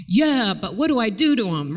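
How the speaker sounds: mildly exasperated parent's comeback; skeptical parent. Retold or imitated. Skeptical parent pushing back on empathy, exasperated. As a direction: lightly voice a tough, doubtful parent. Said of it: "the dads or the strong moms are like".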